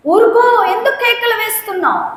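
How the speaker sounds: lightly voiced scolding bystander; hushing bystanders. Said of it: "పక్కన వాళ్ళు అంటారు".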